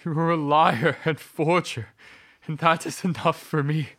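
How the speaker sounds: high, loud bitter accusation; furious shout. Acted. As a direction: cut her off in fury. Husband rejects her explanation.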